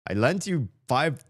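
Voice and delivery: a lightly hammed-up demand for money; mock accusation. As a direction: pretend to bill him, joking. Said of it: "I'm just kidding".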